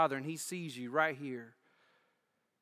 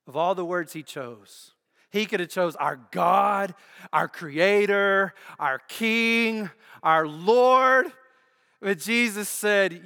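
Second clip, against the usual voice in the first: each title louder and higher than the last; building preached climax; 5 semitones higher, 11 dB louder, slower than usual. Acted. Pastor contrasting names for God, building to a loud climax. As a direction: climb to a ringing peak on "our Lord".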